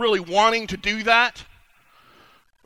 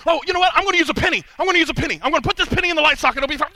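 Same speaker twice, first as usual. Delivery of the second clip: foolish friend; 3 semitones higher, faster than usual. Acted. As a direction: play the friend who never learns, breezy and sure. Friend acting out the light socket.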